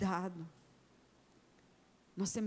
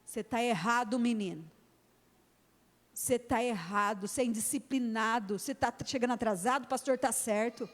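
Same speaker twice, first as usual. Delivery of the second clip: firm parent. Shown as a demonstration. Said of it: "Chega firme".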